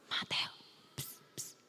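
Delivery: whispered psst to a friend; a hushed aside to Mateo; hushed call. Acted. Disciples secretly calling a friend.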